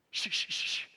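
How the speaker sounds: unvoiced shushing; hushing. Family hushing each other when the phone rings, whispered shushing. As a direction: hush everyone quickly in a whisper.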